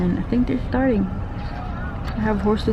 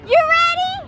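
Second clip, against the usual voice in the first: excited shout. Real, not acted. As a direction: shout it up high across the ride. Shouting to child on ride.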